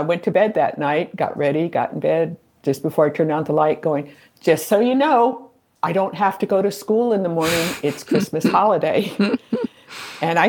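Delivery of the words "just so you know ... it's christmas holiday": higher, cheerful notice to the ghosts, breaking into a laugh; teen announcing to the ghosts she can sleep in; mock announcement to ghosts. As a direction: tell the ghosts you get to sleep in. Telling the ghosts before sleep.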